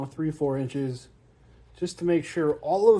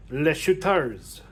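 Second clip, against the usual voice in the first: mock French accent; slower than usual. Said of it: "put the Dark Elves with a French accent".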